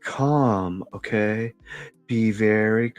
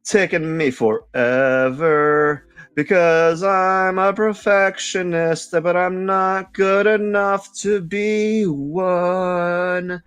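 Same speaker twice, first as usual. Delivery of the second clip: high exasperated voice; 7 semitones higher than usual. Retold or imitated. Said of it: "I'm like".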